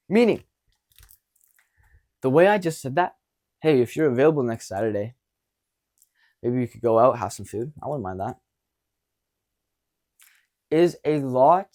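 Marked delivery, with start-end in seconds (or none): 3.6-8.4 easy, unhurried invitation; calm and relaxed. Shown as a demonstration. Coach demos asking a girl out, calm and relaxed. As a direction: ask casually, no pressure. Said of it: "One is much more calm, relaxed".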